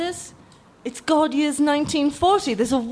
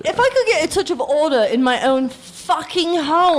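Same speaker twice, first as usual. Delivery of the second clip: exasperated outburst; 2 semitones higher than usual. Acted. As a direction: slam down the rules, fast. Housewife demands order, swearing.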